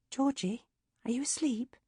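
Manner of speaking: soft unvoiced whisper at the door. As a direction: whisper it so as not to wake her. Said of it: "popped her head round the door and said".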